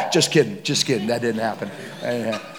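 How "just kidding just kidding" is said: laughing. Real, not acted. Laughs after fake death punchline.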